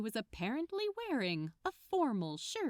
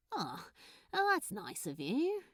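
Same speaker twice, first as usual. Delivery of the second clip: fond smile; 4 semitones higher than usual. A narrator's reading. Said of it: "with a ridiculously fond smile".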